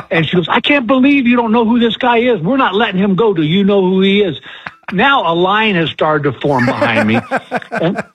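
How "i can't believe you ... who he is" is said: higher-pitched, indignant fan retold; mock outrage on a celebrity's behalf; incredulous older woman. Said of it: "the older woman said".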